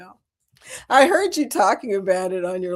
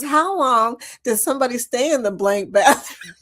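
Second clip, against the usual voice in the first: a touch of imitated Kentucky twang; Southern twang; 3 semitones higher, 3 dB louder than usual. Retelling an impatient casino lady's complaint, lightly imitated Southern twang. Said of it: "the way she said it with her Southern".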